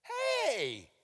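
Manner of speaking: high, loud call; dad calling out. Retold or imitated. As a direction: call out sharply across the room. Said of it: "my dad says".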